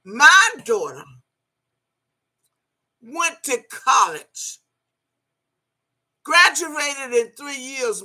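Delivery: each phrase set apart, slow and deliberate; proud, drawn-out boast at a rival; slow proud emphasis. Real, not acted. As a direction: lay it out word by word to rub it in. Proud retort during angry live rant.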